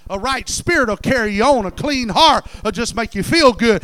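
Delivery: emphatic pulpit declaration. Acted. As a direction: preach it out with rising force.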